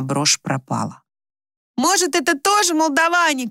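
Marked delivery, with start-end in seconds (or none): 1.8-3.5 much higher, yelling accusation; shouting girl. A narrator's reading. Raya shouts her suspicion during the family quarrel. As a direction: shout over the others. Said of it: "кричала Рая".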